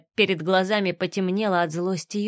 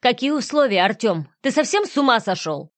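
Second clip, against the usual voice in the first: holding back panic; 3 semitones higher than usual. Acted. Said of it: "стараясь не сорваться".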